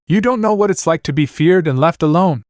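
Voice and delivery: high, pained cry near tears; crying out sadly. Acted. Anna to Naruto, tearful cry. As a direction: plead through tears. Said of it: "she cried, completely sad as she wept".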